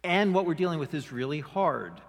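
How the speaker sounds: earnest prayer. Pretend. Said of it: "They didn't come to me and say".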